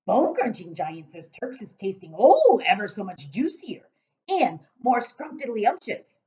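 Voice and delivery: booming relishing giant. Acted. Giant explaining tastes to Sophie, booming voice. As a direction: savour it like a greedy giant.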